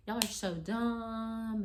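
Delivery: high, slow, drawn-out mock insult; angry cussing. Boyfriend insulting girlfriend and her friend, angrily. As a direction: imitate his angry put-down, stretching the words. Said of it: "He was cussing".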